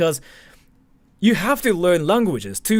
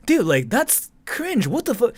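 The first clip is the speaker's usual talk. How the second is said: mock shocked cringe; 7 semitones higher than usual. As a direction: stretch it out like you're cringing at a friend. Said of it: "which means, like".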